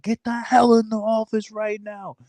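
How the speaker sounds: high, stern imitated command; gunny barking order. Gunny ordering the recruiter into the office, high stern command. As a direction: play the gunny ordering him in.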